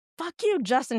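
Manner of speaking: high, screaming outburst. Retelling how a woman cussed out the man who shut down her car: imitating someone screaming. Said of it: "She's like screaming at him and cussing at him".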